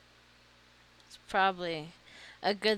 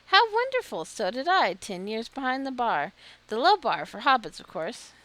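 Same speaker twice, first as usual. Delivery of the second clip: gushing hostess, higher and louder; light up with delight like a chatty barmaid; excited innkeeper; 4 semitones higher, 7 dB louder than usual. Acted. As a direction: innkeeper telling a newcomer about her years at the bar, gushing. Voices Marigold, excited hostess.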